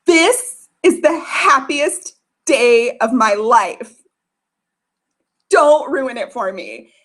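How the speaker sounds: dreamily slow plea to husband; dreamy, slow. Retold or imitated. Wife calming her angry husband, dreamily slow. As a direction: savor every word, slowly. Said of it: "I said".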